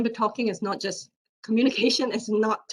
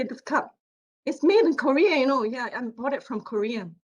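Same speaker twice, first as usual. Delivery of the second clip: the repeat rising higher and louder, upbeat; repeating it again; 4 semitones higher, 4 dB louder than usual. Shown as a demonstration. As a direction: say it again with more push. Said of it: "and then I'll say".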